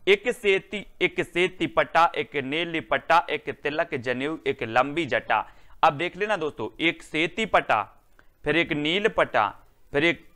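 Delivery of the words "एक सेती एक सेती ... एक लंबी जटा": slow, sing-song memory rhyme; recited mnemonic. Shown as a demonstration. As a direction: chant the rhyme slowly so it sticks. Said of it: "जिन से आपको याद रखना है".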